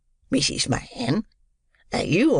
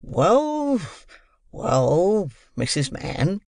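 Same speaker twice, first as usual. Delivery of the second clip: calmer; 4 semitones higher, much slower than usual. A narrator's reading. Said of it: "in a calmer tone".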